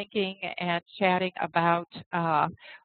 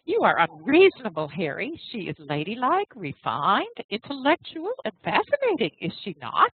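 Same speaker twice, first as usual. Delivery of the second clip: wife's voice, rising high on the list; a coaxing young wife, pitch climbing; young wife Mary; 4 semitones higher than usual. Acted.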